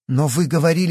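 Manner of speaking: rising horrified protest. A narrator's reading. Yana, horrified at the doctor's news. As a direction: cry out in alarm. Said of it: "в ужасе воскликнула Яна".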